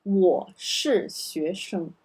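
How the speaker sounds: 我是学生 said slowly as a model; 我是学生 read slowly for learners; model sentence. Shown as a demonstration. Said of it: "In this pattern".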